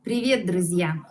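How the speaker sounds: privet druzya said clearly in Russian; Russian greeting. Shown as a demonstration. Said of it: "Hola, amigos". (saludo ruso pronunciado con claridad)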